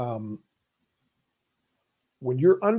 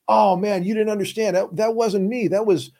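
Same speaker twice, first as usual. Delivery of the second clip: mock pleading client; 6 semitones higher than usual. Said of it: "wanna start talking themselves out".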